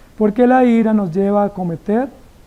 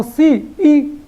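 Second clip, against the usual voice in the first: defiant sass; 5 semitones higher than usual. Acted. Jonah snapping back at God with high sass. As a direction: talk back like a sulky teen.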